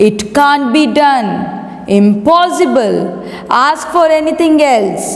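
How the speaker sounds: acted royal refusal; firm refusal. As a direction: refuse the request as a king in a play. King refuses the boy's demand.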